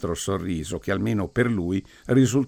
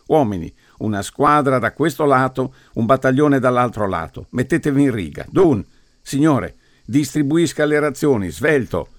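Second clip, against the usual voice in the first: loud barked commands to the troops; commanding orders; 5 semitones higher, 4 dB louder than usual. Acted. Priest ordering the men into ranks, loud commanding. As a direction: drill the men like a sergeant.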